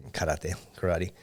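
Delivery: "karate" said first the Japanese way, kah-rah-teh, then the American way, kuh-RAH-dee; Japanese pronunciation. Shown as a demonstration. Correcting himself for American listeners, Japanese then English pronunciation. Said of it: "hard for me to say the words incorrectly".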